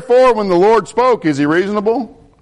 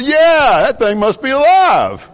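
higher, louder amazed exclamation; 8 semitones higher, 4 dB louder, slower than usual. Retold or imitated. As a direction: marvel out loud at the newborn. Father amazed at baby's birth.

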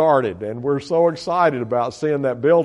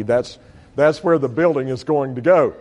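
ordinary talk

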